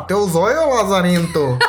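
mock southern Brazilian backwoods accent; thin southern German-Brazilian hick voice. Shown as a demonstration. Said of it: "tem aquela voz fina".

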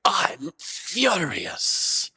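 drawn-out, high-pitched mock fury; mock scream, not at full volume; imitated furious tenant. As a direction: stretch it out slowly as a comic imitation of outrage. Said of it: "she's yelling at me on the phone".

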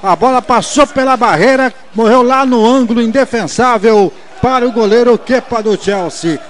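energetic commentary. Acted. Analyst replay, loud.

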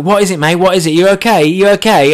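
high, loud, hurried check on a friend; urgent concern. Retold or imitated. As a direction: act out rushing in worried. Friend runs up, acted as alarmed.

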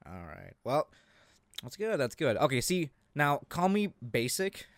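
usual speaking voice

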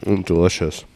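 chewing caramel. Real, not acted. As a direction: mouth full of toffee. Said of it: "we're chewing on caramel".

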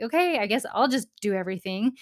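imitating a put-upon mom, not yelling; victim mode. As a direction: play the mild martyr with resigned self-pity. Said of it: "a little bit of a victim mode".

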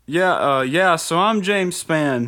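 high, slow TV weatherman voice; a broad local weatherman, drawn out; James Spann impression. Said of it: "That's a good impression".

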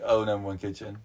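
a half-hearted mock Asian accent, low and a bit quiet. First try at the restaurant joke, faint mock Asian accent. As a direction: toss off "number one kitchen" in a faint put-on accent. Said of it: "how Asian people say it".

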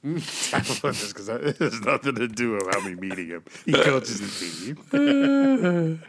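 laughing. Real, not acted. Laughing through a defence.

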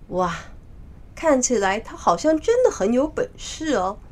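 mild admiring wonder; impressed exclamation. Acted. Father and son see the Monkey King, mildly awed. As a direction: marvel with a touch of awe. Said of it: "也不禁感".

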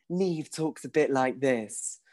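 a slow, drawn-out hint of a character; Niamh's voice. Shown as a demonstration. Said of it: "I do a different voice for every character".

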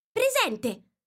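high, loud cry of here; Alice flustered, shouting present; eager exclamation. Acted. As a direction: jump up and call out. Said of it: "esclamò Alice".

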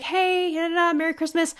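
high singsong holiday hello; cheery greeting. Retold or imitated. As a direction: breezily act out greeting the neighbors. Acts friend greeting neighbors for Christmas.

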